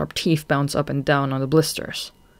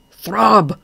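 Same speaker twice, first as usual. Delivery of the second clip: shout; 6 semitones higher, 8 dB louder than usual. Acted. Goth shouts to wake Throb.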